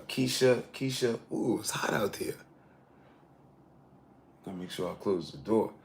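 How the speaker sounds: breathy whisper, voice dropped right out; whispered aside. Real, not acted. Streamer whispering to himself about the heat while reading names. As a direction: whisper it to yourself, off-mic.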